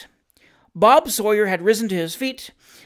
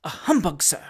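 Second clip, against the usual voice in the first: measured, mildly emphatic repeat; low, emphatic; 3 semitones lower than usual. A narrator's reading. Gentleman confirming his rebuke to friend, mildly emphatic. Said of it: "uttered in a low, but distinct and emphatic tone".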